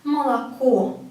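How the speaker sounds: "Молоко" as ma-la-KO; stressed final O. Shown as a demonstration. Teacher recapping the rule, "Молоко" said ma-la-KO. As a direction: reduce the first two O's of "Молоко" to A, lean on the last. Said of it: "because it has a stress on it".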